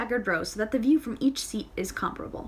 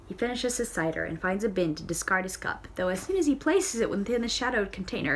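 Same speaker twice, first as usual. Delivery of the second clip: ordinary delivery, nothing marked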